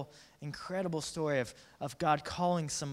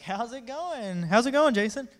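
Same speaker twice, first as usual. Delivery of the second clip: high, drawn-out holler building louder; calling out; 8 semitones higher, 8 dB louder than usual. Acted. Friends hailing a man fishing, hollered. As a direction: holler it across the water.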